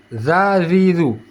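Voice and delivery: "Za, zi, zu" with tongue tip out, root flat; light TH of "this" in "Za, zi, zu"; thin za. Shown as a demonstration. Teacher showing placement, "Za, zi, zu" kept thin. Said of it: "dia datar".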